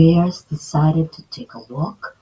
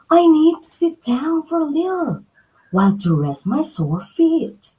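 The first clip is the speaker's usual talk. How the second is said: put-on tired girl thinking; 10 semitones higher than usual. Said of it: "she thought".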